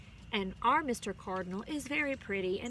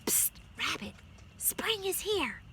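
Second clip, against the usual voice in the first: whisper; 8 semitones higher than usual. A narrator's reading. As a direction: breathe it into the rabbit's ear. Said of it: "as it whispered".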